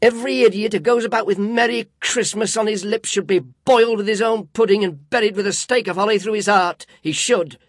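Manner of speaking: loud, high furious tirade; indignant rant. A narrator's reading. Scrooge railing at his nephew about Christmas, indignant. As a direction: rage against the fools. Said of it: "said Scrooge indignantly".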